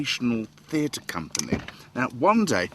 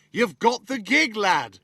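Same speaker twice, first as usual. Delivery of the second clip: put-on a slow, higher take on Brendan's thick accent; 9 semitones higher, 4 dB louder, slower than usual. Brendan hiring him, imitated slowly in Brendan's thick accent. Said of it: "only with an accent that I didn't understand".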